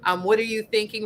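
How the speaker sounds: harsh inner voice. Retold or imitated. Quoting her harsh inner voice.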